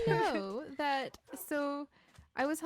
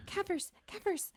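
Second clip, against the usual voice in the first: excited; 8 semitones higher, 3 dB quieter, slower than usual. Real, not acted. Excited at seeing friend.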